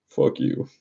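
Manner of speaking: breathy whispered fuck you. Retold or imitated. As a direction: hiss it under your breath like a sulky kid. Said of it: "And she was like".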